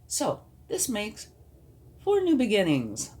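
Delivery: cheerfully announcing good news; excited. Real, not acted. Counting new beginnings in the reading.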